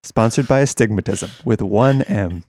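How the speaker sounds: mock sultry sponsor read; sultry narrator. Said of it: "you guys will get more of this sultry voice".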